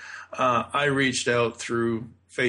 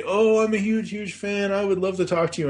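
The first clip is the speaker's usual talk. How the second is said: gushing fan; 8 semitones higher than usual. Retold or imitated. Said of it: "you can't just say".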